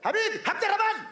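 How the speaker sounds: high called names; calling out. Acted. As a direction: call the bandmates over. Calling bandmates.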